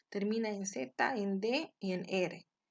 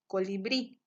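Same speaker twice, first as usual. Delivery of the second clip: colibrí with a strong final BRÍ; stress on last syllable. Shown as a demonstration. Teacher giving examples of agudas, colibrí with stressed BRÍ. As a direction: push the end of colibrí. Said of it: "en la última sílaba".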